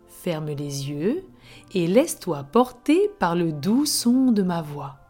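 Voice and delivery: right in your ear. Acted. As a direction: breathe them gently into calm. Leads a relaxation before story. (voix douce de relaxation guidée)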